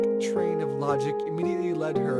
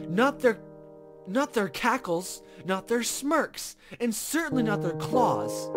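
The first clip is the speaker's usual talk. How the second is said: disgusted complaint; 4 semitones higher than usual. Acted. Child listing pests' faults indignantly.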